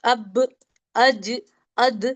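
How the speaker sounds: अब, अज, अद with a light echoing bounce on the final letter; qalqala bounce. Shown as a demonstration. Quran teacher drilling qalqala letters, bouncing the final consonant. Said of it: "extra sound करने में".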